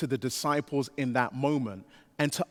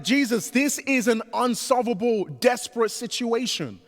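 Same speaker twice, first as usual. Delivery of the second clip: higher, pleading voice of worried disciples; exasperated disciples; 7 semitones higher than usual. Retold or imitated. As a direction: play the cornered disciples throwing up their hands. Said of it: "They're like".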